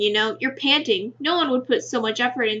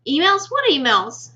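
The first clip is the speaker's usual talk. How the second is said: surprised; 3 semitones higher than usual. Acted. Accused of sending emails.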